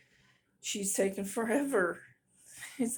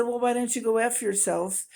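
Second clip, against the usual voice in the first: loud, raised snap back; angry comeback; 4 semitones higher, 6 dB louder than usual. Retold or imitated. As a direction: fire it back loudly. Quoting her own angry comeback.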